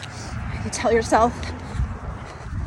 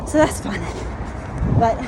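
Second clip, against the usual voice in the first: out of breath. Real, not acted. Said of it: "it got me out of breath".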